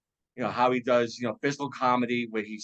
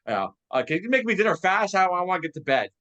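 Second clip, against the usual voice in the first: tired Ralph; 6 semitones higher, 3 dB louder than usual. Retold or imitated. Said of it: "he's like".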